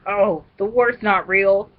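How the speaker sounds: slow, lightly voiced Finney, a touch dreamy; a hint of Finney, said slowly. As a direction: drawl it out slowly as easygoing Finney. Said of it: "This is my Finney voice".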